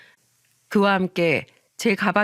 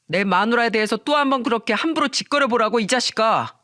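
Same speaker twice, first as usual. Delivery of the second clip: acted drunk husband's outrage, moderately raised; angry; 3 semitones higher than usual. Drunk husband confronting friend who insulted his wife, angry. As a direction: challenge him in defence of your wife. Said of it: "막 화를 내기 시작했죠".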